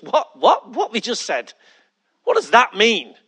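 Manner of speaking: mock disbelief, rising on the first questions; baffled. Preacher voices Paul questioning God's answer, baffled. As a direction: blurt it out like you can't believe it.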